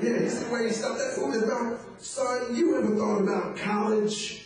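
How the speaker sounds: lightly voiced eager talent scout; sports scout voice. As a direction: size up a prospect with relish. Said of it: "talking about".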